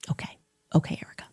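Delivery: whispered, dismissive aside; sarcastic whisper. Real, not acted. Dismissing Erica's claim in a sarcastic whisper. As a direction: breathe it out with disdain.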